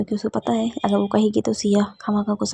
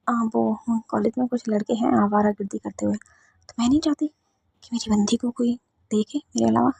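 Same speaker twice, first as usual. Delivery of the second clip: softer, hushed confession; quiet confiding; 5 dB quieter than usual. Acted. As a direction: tell her softly so nobody hears. Kittu confides quietly to Anandi.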